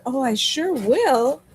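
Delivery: granny voice. Retold or imitated. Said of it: "And she said".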